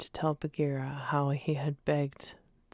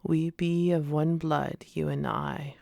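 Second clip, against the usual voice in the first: put-on Bear accent; 4 dB louder than usual. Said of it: "giving the words the Bear accent".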